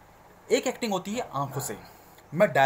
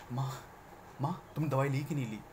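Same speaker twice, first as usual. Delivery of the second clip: caring to mother; 2 semitones lower, 7 dB quieter than usual. Shown as a demonstration. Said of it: "मैं अपनी माँ से बात कर रहा हूँ".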